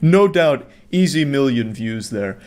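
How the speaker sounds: dry sarcastic applause for the vlogger mom; sarcastic praise. Acted. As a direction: praise it as if it were art, dripping sarcasm.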